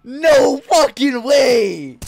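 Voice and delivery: disbelieving shout. Real, not acted. Gamer disbelief.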